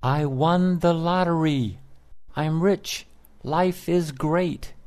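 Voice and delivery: high, joyful shout of a lottery winner; excited yell. A narrator's reading. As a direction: cry it out in raw delight. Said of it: "he yelled".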